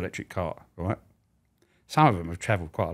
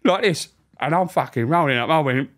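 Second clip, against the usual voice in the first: ordinary delivery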